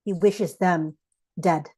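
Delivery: measured poetry recital with deliberate pauses; spoken poem, phrase by phrase; poem reading. Real, not acted. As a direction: read it line by line, letting each image land. Reads a poem aloud.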